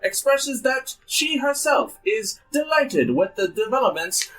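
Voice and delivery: put-on grand old ballroom announcer; old-timey announcer. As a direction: boom it like vintage radio host. GM continues the news broadcast.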